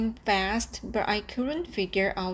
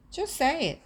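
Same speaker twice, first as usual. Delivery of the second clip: sharp, higher, louder snap; impatient father snapping at his son; 8 semitones higher, 4 dB louder, faster than usual. A narrator's reading. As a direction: cut him off impatiently. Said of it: "my father snaps".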